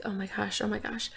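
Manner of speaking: breathless whispered oh my gosh, replayed; retold whisper. Mother in labour retelling her pained whisper. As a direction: whisper it like you're curled up in pain.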